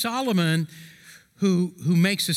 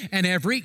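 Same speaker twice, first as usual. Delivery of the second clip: every leaned on, slightly raised; stress on every; faster than usual. Shown as a demonstration. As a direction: give every a push. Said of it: "circle the word every".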